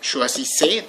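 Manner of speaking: "choisissez" ending on an open ay; silent final Z. Shown as a demonstration. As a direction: say "choisissez" as shwa-zee-say, no Z heard. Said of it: "don't pronounce the final Z".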